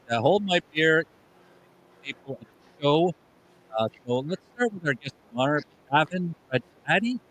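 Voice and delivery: choppy broken-up connection; glitchy robotic call. Real, not acted. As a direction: audio cutting in and out. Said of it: "why are you so choppy?".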